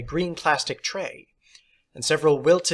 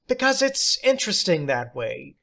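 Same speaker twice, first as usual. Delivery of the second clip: theatrical teacher; 3 semitones higher than usual. Acted. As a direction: play the odd substitute, grand and pleased.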